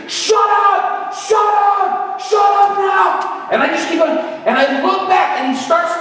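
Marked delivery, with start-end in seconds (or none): 0.1-3.5 imitated high holler, drawn out on the last demand; screaming heckler. Heckler up on the drum stage yelling at the preacher, imitated high scream. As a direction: holler it like a man demanding silence. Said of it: "he's still screaming".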